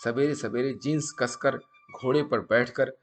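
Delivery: deliberate storytelling, pausing between phrases; moral story narration. A narrator's reading. Storyteller passing a sadhu's maxims to viewers, measured emphatic narration. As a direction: narrate like a teaching tale, punching each maxim.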